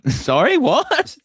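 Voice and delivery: high, stretched-out disbelief; laughing mock confusion; baffled reply. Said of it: "And then they're like".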